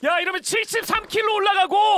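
excited shout. Real, not acted. Excited play-by-play call.

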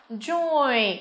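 "joy" drawn out with an "oi" glide; model pronunciation. Shown as a demonstration. Teacher shows how A differs, modelling "joy" with "oi". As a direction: pronounce "joy" as a careful model word. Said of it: "từ A này phát âm là".

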